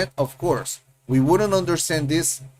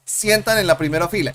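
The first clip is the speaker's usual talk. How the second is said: quick demo; faster than usual. Shown as a demonstration. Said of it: "what happens if we remove this?".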